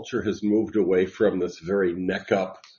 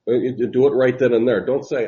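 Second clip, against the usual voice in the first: emphatic; 3 semitones higher, 7 dB louder than usual. Real, not acted. Preaching insistence on praying now.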